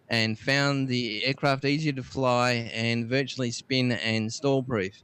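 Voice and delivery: measured reading of a dated entry; read-out history item. Acted. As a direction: announce the date, then read it out. Reads out tech history item.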